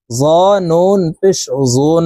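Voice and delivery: "জুন" ending in a long nasal hum; held ghunnah. Shown as a demonstration. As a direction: hold the n of "জুন" through the nose for about three seconds. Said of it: "তিন second পরিমাণ গুন্নাহ করে ধরে রাখবো". ("জুন": নাকের বাসি থেকে টেনে গুন্নাহ)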